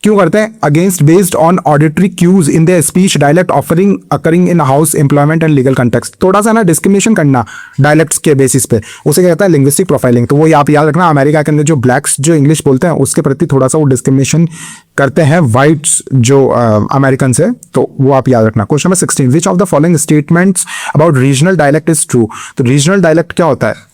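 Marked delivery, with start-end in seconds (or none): 0.6-6.2 slow, careful reading of an exam question; measured exam-question read. Acted. Reads exam question text aloud. 18.7-22.3 slow, deliberate question read; careful exam-paper reading. Acted. Reads exam question text aloud.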